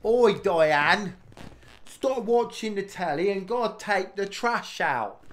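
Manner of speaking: high, loud, slow nagging call: Oi, Diane; mock yell. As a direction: bellow at her to take the trash out, in jest.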